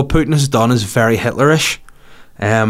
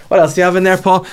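mock Putin; 7 semitones higher, faster than usual. Putin voiced in a story.

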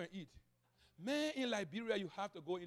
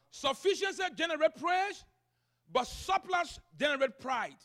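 raised pitch, key words punched; emphatic preaching; 7 semitones higher, 11 dB louder than usual. Real, not acted. Pastor quoting a writer on sufficiency and pride, emphatic preaching. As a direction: drive the maxim home to the congregation.

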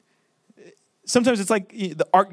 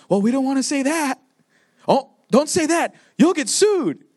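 mock timid caution; 4 semitones higher than usual. Mimicking Christians afraid to offend.

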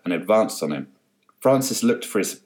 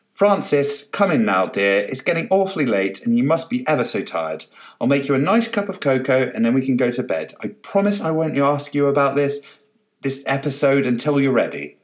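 coaxing; 5 semitones higher than usual. Acted. Coaxing husband from pool.

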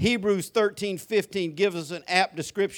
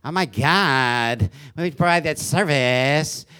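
slow, nasal-claimed valley girl mimic; mock the lady as a valley girl; imitating a California valley voice; fake California accent; 4 semitones lower, 4 dB louder, slower than usual. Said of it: "valley in California".

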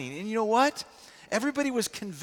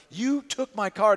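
passionate accusation; 3 semitones higher, 5 dB louder than usual. Retold or imitated. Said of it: "He is passionate and angry".

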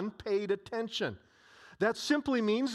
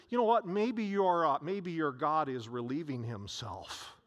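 mocking; 4 semitones lower than usual. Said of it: "He's mocking them and he says".

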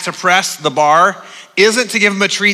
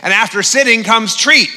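higher-pitched, insistent begging pet; demanding whining dog; 5 semitones higher than usual. Acted. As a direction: plead like an indignant dog owed a treat. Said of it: "yipping and whining, you know, wanting that treat".

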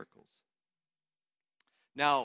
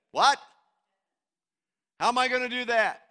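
acting out a startled, raised "What?"; mock disbelief, pushed up and out; incredulous protest; 8 semitones higher, 9 dB louder than usual. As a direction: play a disciple balking at the order, quick and indignant. Acts out disciples' incredulous protest.

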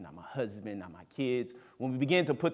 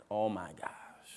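mock panic; 6 dB quieter than usual. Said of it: "Normally, I would be freaking out".

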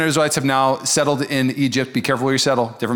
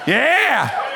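laughing whoop; 9 semitones higher than usual. Real, not acted. Crowd cheers about cowboy hat.

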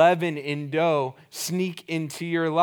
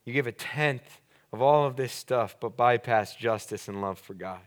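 disappointed woe; 4 semitones lower than usual. Shown as a demonstration. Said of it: "He's disappointed".

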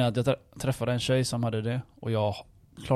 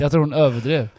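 laughing; 6 dB louder than usual. Real, not acted. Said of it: "laugh heard".

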